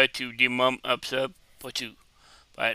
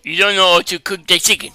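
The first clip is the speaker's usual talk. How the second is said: mimicry; 4 semitones higher, 9 dB louder than usual. Echoing the clip's scolding man.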